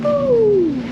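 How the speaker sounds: excited cheer. Real, not acted. Cows jumping for joy.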